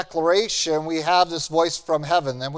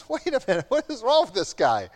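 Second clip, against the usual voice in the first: softer, baffled aside; puzzled disciples; 3 semitones higher, 4 dB quieter, faster than usual. Retold or imitated. Disciples puzzling over Jesus, softer baffled aside. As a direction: ask it half under your breath, confused. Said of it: "the disciples going".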